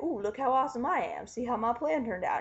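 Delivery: lightly voiced gloating villain; big bad guy, gloating. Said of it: "doing the big bad guy thing".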